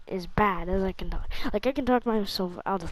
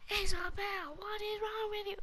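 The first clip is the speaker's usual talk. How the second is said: rude; 13 semitones higher, 4 dB quieter than usual. Pretend. Rude remark he didn't make.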